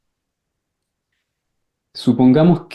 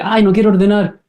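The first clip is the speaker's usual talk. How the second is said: put-on higher, whining kid refusing; whiny child; 7 semitones higher than usual. Child refuses to tidy the toys, higher whining. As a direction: complain like a reluctant child. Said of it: "Es como".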